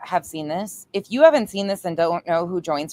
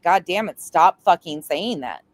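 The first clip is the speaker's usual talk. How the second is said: retold fed-up plea with a loud, punched STOP; exasperated mock scolding; imitated exasperation; 5 dB louder, slower than usual. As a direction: imitate a friend who has had enough. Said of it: "she'd be like".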